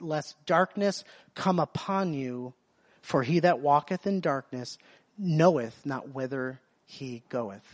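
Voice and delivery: slow, measured King James reading; solemn scripture reading. Acted. Preacher reading John's gospel to the congregation, slow and solemn. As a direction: let each verse of the promise land.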